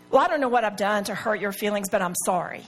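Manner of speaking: mildly snooty non-apology; a touch of haughtiness, dropping at the end. Retold or imitated. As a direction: imitate a huffy, grudging apology. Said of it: "she was kinda snooty, and she said".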